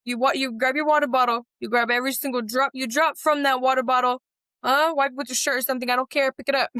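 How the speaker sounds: mock-stern, lecturing the kids about spills; strict aunt. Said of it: "I'm like".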